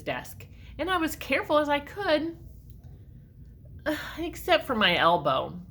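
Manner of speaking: put-on lively read-aloud for children; story narration. A narrator's reading. Reading a story to children, lively and expressive. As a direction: read it like a picture book to kids. Reads picture book aloud.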